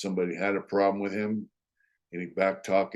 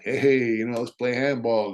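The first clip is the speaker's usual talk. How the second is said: friendly buddy; 3 semitones higher, 4 dB louder than usual. Retold or imitated. Danny inviting his prison friend to play handball, imitated friendly manner. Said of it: "went from being like".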